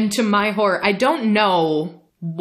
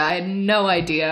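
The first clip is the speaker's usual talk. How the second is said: ordinary talk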